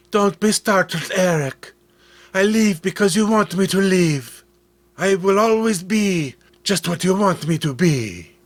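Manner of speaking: a hint of a living statue, gentle and clear; clear flute-like voice. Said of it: "Her voice was clear as a silver flute".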